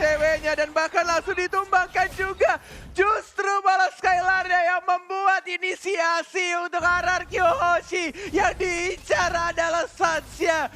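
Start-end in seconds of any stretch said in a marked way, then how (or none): 2.9-10.7 excited, drawn-out call. Real, not acted. Caster calls initiation slowly.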